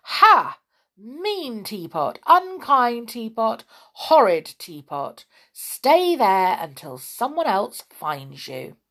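gleeful scolding, loud and pleased; pixie. Acted. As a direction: gloat at the teapot, lightly voiced pixie. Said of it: "said the pixie in delight".

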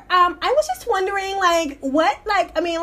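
put-on ditzy valley girl wondering aloud; mock valley girl asking a thief why. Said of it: "I started talking like a valley girl".

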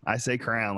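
crown said like headwear, one syllable; crayon as crown. Shown as a demonstration. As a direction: run crayon together into crown. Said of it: "like, on your head".

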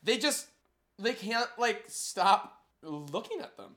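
put-on a light Valley Girl voice with lots of like. Time travelers chatting in a Valley Girl accent. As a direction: play it ditzy and breezy, Valley Girl. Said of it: "What about Valley Girl?".

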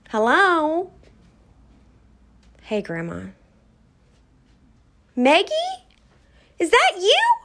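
put-on high, surprised old lady; grandma's surprised voice. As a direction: gasp out her name in disbelief. Grandmother voiced answering phone.

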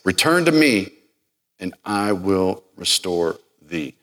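starts hushed, then swells to a fervent plea; lightly voiced loving Hosea; tender call home. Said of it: "I always chuckle when I say".

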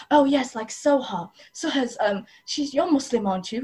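teacher singling out pupil. Retold or imitated. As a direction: imitate a teacher showing off a pupil. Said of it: "teachers purposely talk about".

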